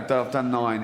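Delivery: deflated reply to the boss; a hint of a beaten writer; weary writer. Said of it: "the bloke writing it".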